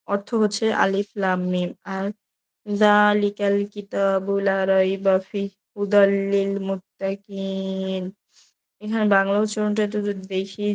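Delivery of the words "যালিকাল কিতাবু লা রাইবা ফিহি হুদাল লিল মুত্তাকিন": slow, measured Quranic recitation. Acted. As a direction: draw each Arabic syllable out slowly. Reads Quran verses aloud. (ধীর কোরআন তিলাওয়াত)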